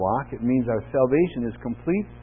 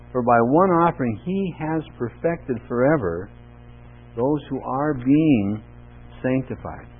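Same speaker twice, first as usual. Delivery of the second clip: measured, emphatic scripture reading; 4 dB louder than usual. Acted. Pastor reading Hebrews aloud to the congregation, measured and emphatic. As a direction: read the verses out with weight.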